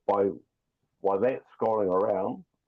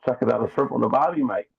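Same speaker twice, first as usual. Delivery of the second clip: put-on a light jokey Aussie accent, slightly higher and louder; hammed-up Australian accent; 3 semitones higher, 4 dB louder than usual. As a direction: play up the Aussie cliché, cheerfully. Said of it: "How Aussie is that?".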